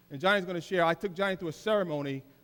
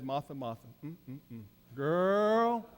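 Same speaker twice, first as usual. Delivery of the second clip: gentle Jesus; 4 semitones lower, 3 dB quieter than usual. Acted. Jesus gently scolds Martha.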